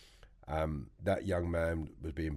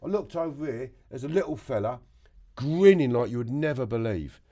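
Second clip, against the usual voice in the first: laughing while telling; 11 semitones higher, 11 dB louder than usual. Real, not acted. Still laughing through story.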